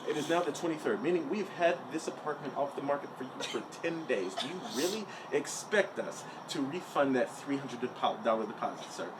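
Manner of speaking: soft, over-enunciated imitation of a clerk; Bryce. Agent refusing a tenant's refund, softly imitated official voice. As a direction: lecture like a mock-official agent. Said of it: "this is exactly how he's talking to me".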